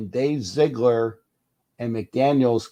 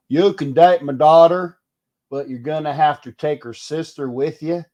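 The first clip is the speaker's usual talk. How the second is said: put-on mild Southern accent; 4 semitones higher, 4 dB louder than usual. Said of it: "that always sounds better coming with a Southern accent".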